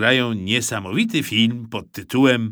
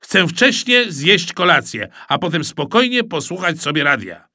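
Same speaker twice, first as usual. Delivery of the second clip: fed-up father; 5 semitones higher, 4 dB louder than usual. Acted.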